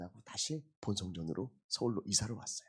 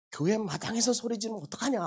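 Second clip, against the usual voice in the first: mock scolding; 12 semitones higher, 9 dB louder than usual. Father scolding son, joking.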